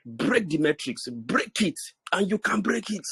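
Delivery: angry exhortation, key words drawn out; worked-up anger. Real, not acted. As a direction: urge them on with real heat and punched words. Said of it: "each time I talk and I'm angry".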